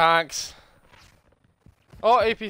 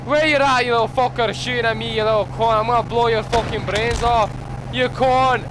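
angry taunting; 3 semitones higher than usual. Real, not acted. Taunting the enemy.

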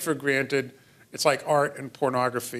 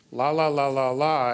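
put-on baby-like lalling, la-la-la; babbling; 4 dB louder than usual. Shown as a demonstration. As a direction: imitate a baby lalling in syllables. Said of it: "is lalling, what we call babbling".

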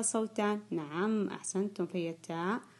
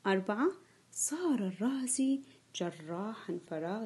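whisper; 3 dB quieter than usual. Real, not acted. Teacher reading a sentence.

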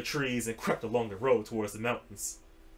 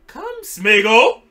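slow, loud, high drawn call; 10 semitones higher, 15 dB louder, much slower than usual. Acted. Frodo calling Gollum out, loud and drawn. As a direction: call him across the dark.

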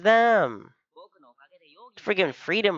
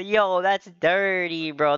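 slow, drawn-out fake innocence; lightly voiced guilty guy acting offended; mock guilty denial; 4 semitones higher, slower than usual. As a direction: play the guilty guy brushing it off. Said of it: "Guilty people always say".

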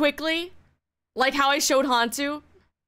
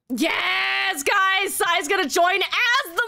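higher shouted yes guys; excited cheer; 6 semitones higher, slower than usual. Real, not acted. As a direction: cheer the news to the chat. Cheering announcement to chat.

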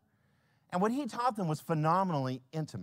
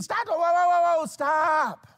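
loud halt; 12 semitones higher, 8 dB louder, slower than usual. Acted. Pastor halts frantic host.

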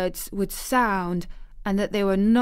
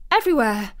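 louder, sudden burst on the word; gasped answer; 3 semitones higher, 6 dB louder, much faster than usual. A narrator's reading. Girl asked where she plays, gasping her answer. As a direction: gasp it out eagerly. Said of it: "gasped Mary".

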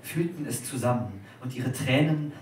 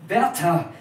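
louder, higher, firm cry of Werther; composed, noble call; 6 semitones higher, 9 dB louder than usual. A narrator's reading. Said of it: "rief sie mit dem gefassten Tone des edelsten Gefühles".

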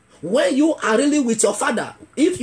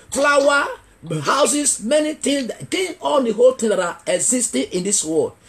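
preaching shout; 2 semitones higher than usual. Real, not acted. Preacher crying out in sermon.

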